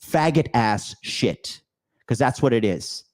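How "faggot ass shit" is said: slow, drawn-out stress on the first word; emphatic stress. Real, not acted. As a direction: spell out each word slowly for emphasis. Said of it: "I want to emphasize the word".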